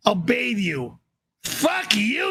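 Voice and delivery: usual speaking voice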